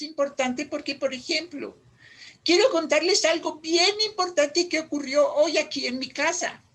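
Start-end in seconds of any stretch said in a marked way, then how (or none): 2.4-6.6 louder build-up before a pause after "mi casa"; dramatic pause setup. Shown as a demonstration. Teacher teasing news to the class, suspenseful build-up. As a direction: announce "algo bien importante", then hold silence after "mi casa". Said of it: "Esa pausa es dramática".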